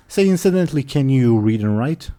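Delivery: put-on sly noble probing the girl; oily scheming vizier. Grand Vizier voiced by GM.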